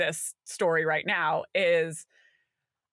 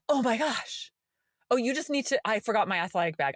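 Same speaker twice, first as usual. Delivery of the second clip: flustered son; 2 semitones higher than usual. Retold or imitated. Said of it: "he's like".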